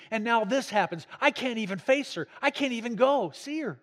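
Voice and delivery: mildly acted angry outburst, building in pitch; upset, angry husband. Husband venting to the vicar about his arrested wife, retold angry. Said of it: "was so upset".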